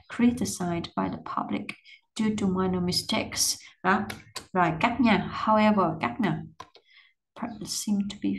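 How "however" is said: "However" said louder with a fall; teacher showing where to stress the linking word. Shown as a demonstration. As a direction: open with a firm, stressed "However". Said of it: "Chỗ này however nhấn nè".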